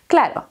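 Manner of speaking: quick claro with a D-like R; fast Spanish claro, R almost a D. Shown as a demonstration. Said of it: "Cuando la decimos rápido".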